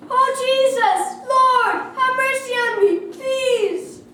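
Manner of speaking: high, full-voiced plea; crying out loud. A narrator's reading. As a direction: call desperately over a noisy crowd. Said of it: "he cried out loud".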